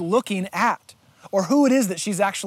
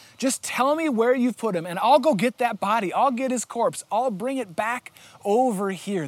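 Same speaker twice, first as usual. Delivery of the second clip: usual speaking voice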